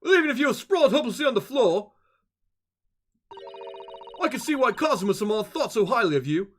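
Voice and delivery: put-on posh British character voice; British accent. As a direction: read it as a pompous Brit, badly faked. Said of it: "How is the British accent".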